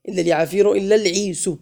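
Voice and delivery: "العيس" closing on a sounded -u; damma rhyme. Shown as a demonstration. Teacher proving the poem's rhyme, damma ending sounded on "العيس". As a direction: let "اليعافير" and "العيس" both end in -u. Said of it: "قافية القصيدة كلها مضمومة".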